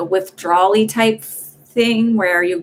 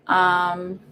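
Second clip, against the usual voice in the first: yawning mid-word; 2 semitones lower than usual. Real, not acted. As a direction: say it through a yawn. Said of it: "excuse my yawn".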